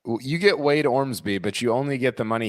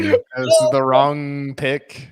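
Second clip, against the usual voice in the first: slow emphatic; 3 dB louder, much slower than usual. Real, not acted.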